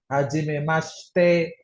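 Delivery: Hajimemashite slowly, as "hajimemashte"; silent i. Shown as a demonstration. Teacher demonstrating a greeting, silent i. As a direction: drop the i after sh in Hajimemashite. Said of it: "I-nya nggak dibaca".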